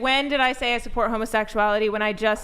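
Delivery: fast, heated rebuttal; indignant protest. Real, not acted. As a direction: fire back quickly in a real argument. Heated quarrel, objecting to an accusation.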